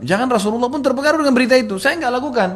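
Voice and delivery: high, fast, loud protest; urgent pleading. Retold or imitated. Accused daughter begging her father to answer, urgent. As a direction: plead innocence, pitched high and quick.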